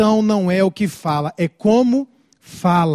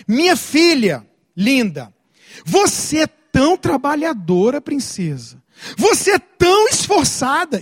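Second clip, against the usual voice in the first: sweetly praising a daughter, slightly higher; gentle praise; 3 semitones higher than usual. Shown as a demonstration. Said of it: "E como é que a gente anestesia?".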